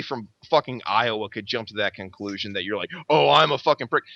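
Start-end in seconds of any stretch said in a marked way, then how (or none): 3.1-4.0 higher mock indignation; mocking retort. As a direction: parrot the offended man mockingly. Mocks the fighter's offended retort.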